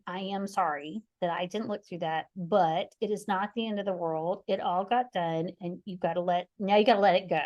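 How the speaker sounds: gentle honesty. Retold or imitated. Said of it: "with a lot of honesty and generosity".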